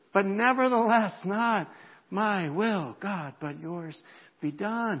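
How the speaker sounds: prayer slowing into surrender; accepting surrender. Retold or imitated. Jesus yielding to God's will in the garden, accepting. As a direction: start high, then ease down and slow. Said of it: "listen to this embracement right here".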